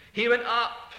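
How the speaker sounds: Went lifted with a brighter, stronger ring; triumphant proclamation, Went rising. Shown as a demonstration. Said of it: "in a triumphant way".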